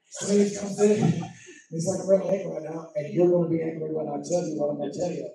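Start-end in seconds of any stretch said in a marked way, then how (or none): 2.0-5.3 low-key imitation of controlled anger; understated anger. Colleague warning the pastor of bad news, understated anger. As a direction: imitate someone calmly announcing his anger. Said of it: "he can be angry and be like".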